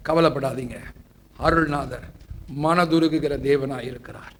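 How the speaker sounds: low, softened pastoral comfort; tender reassurance. Real, not acted. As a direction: reassure the troubled, dropping low and soft. Preacher reassures troubled listeners.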